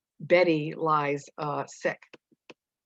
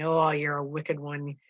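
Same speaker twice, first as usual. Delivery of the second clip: smiling. Acted. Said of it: "Proctor smiling, his smile widening".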